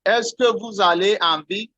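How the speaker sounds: "Est-ce que vous allez en ville?" rising at the end; teacher models a French question with a rise; rising question tune. Shown as a demonstration. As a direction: lift "ville" like a real question. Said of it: "We have few examples".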